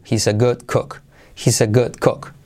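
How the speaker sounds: "good cook" with vowels close to O, "got kok"; linked phrase with O-like "good cook". Shown as a demonstration. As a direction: round "good" and "cook" towards O, not U. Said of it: "Ochenta por ciento O, veinte por ciento U".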